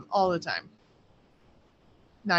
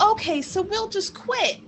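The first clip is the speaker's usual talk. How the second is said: resigned quote; 11 semitones higher than usual. Retold or imitated. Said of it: "then I was like".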